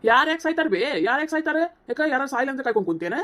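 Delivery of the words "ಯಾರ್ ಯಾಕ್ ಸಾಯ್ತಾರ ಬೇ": louder, higher snap back at her; sharp retort. Acted. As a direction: throw the question back hard. Son snaps back at mother.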